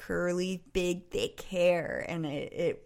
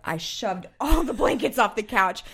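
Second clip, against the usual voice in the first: ordinary talk, nothing marked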